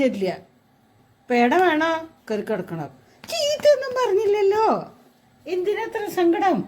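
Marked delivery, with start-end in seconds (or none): 3.3-6.6 laughing coax. Real, not acted. Coaxing her sulking cat.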